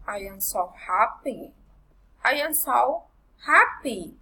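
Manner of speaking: "see you" rises then drops; careful model exclamations, falling on "happy". Shown as a demonstration. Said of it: "Exclamatory sentence failing intonation".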